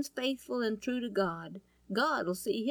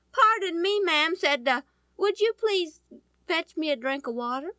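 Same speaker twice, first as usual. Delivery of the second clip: a higher, louder, eager polite request; polite Elijah; 5 semitones higher, 3 dB louder than usual. Acted. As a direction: ask the lady sweetly for water. Elijah politely asks the widow.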